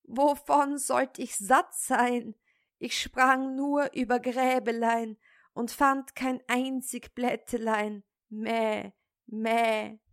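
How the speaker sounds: hohe, jammernde Ziegenstimme mit Meckern am Ende; klagende Ziege. Acted. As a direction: beschwer dich wie eine hungrige Ziege. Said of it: "Die Ziege antwortete". (Ziege klagt dem Vater, lügend hungrig, meckernd)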